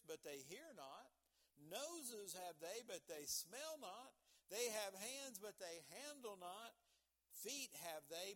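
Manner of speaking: measured, emphatic psalm reading; scripture reading. Acted. Preacher reading the idols psalm to the church, emphatic scripture reading. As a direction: read verse by verse with punched key words.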